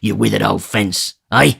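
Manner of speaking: a lightly gruff Sikes; rough thief talking to the old fence. Acted. Sikes voiced in story.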